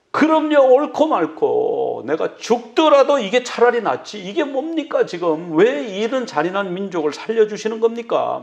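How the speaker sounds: Jonah snapping back at God, then grumbling on; defiant retort. Retold or imitated. Jonah answering God, defiant and heated. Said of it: "막, 막 이러고".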